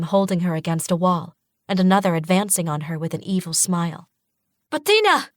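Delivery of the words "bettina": high desperate yell of her name; scream. A narrator's reading. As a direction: cry out to save your sister. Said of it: "I scream".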